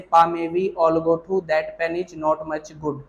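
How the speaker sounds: slow recitation. Shown as a demonstration. Teacher reciting the twelve vowels slowly for students to memorise. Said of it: "कैसे?".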